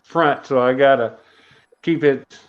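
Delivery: muffled behind a face mask; through a face mask. Real, not acted. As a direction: speak through a mask over the mouth. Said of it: "Excuse my mask".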